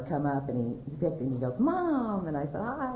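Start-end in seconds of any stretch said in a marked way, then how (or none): 1.6-2.3 high-pitched, drawn-out call of Mom; retold high, happy phone greeting; excited greeting. Son answering his mother's call. 2.6-2.9 sweet high-pitched greeting; affectionate greeting. Retold or imitated. Mother greeting son on phone.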